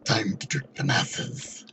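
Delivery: very high, slow squeak; squeaky high voice. Acted. Game voice changer joke.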